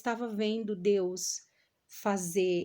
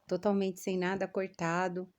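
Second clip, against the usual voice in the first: talking around a swollen tooth; speaking carefully with a sore, swollen jaw; swollen mouth after tooth extraction. Real, not acted. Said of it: "Me perdoe pela maneira que eu tô falando, por causa do dente".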